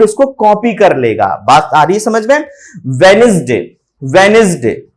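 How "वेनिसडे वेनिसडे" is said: "वेडनेसडे" as WEN-is-day; silent d. Shown as a demonstration. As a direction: drop the first d in "वेडनेसडे". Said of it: "डी silent होता है".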